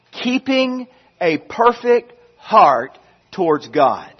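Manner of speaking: keeping leaned on, held a touch longer; stress on keeping. Shown as a demonstration. Preacher restating his sermon title, stressing keeping. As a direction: lean into the word keeping at the start. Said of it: "The emphasis is on keeping".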